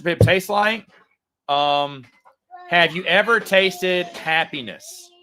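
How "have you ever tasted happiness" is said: mock salesman pitch. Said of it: "being facetious".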